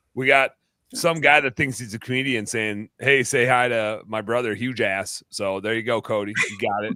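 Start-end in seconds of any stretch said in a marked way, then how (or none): none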